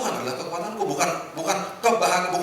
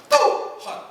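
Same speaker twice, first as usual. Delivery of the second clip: high breathy mock sob broken into gasps; overacted drama weeping with laughter; soap-opera crying; 4 dB louder, much slower than usual. Shown as a demonstration. Preacher parodying melodramatic soap-opera crying to God. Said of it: "itu biasa nonton sinetron".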